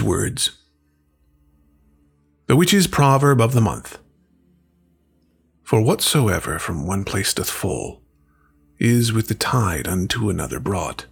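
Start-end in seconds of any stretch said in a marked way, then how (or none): 5.6-11.1 put-on slow, measured recitation of an old verse; solemn verse reading. Host reading the witch's proverb, slow and solemn. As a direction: let each line settle, unhurried.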